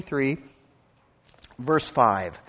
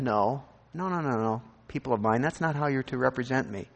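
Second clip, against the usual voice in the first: lower, softer voice of God gently saying no; God's gentle rebuke; 3 semitones lower, 4 dB quieter than usual. Retold or imitated. God gently corrects his people, lower and softer. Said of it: "And God said".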